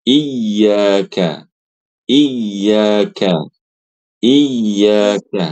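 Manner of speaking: "Iyyaka" with the yy struck by the tongue; correct model. Shown as a demonstration. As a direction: tap the doubled y of "Iyyaka" crisply with the tongue. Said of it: "gini, Bu".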